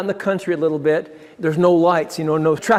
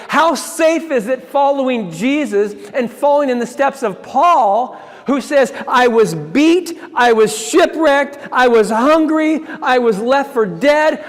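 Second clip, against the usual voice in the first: rising, louder, slowing to punch each line; impassioned defence; 5 semitones higher, 5 dB louder, slower than usual. Retold or imitated. Coach defending the mission to his administrator, impassioned and building. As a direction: build like a preacher listing hardships.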